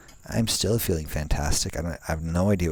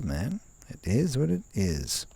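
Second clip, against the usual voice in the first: higher, breezy mock-sorry voice; mock apology from the computer; 5 semitones higher than usual. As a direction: act the careless software shrugging it off. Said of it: "It's like".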